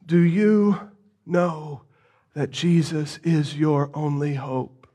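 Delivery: preacher quietly pressing the congregation; solemn appeal. Real, not acted. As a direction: draw them in, grave and quiet.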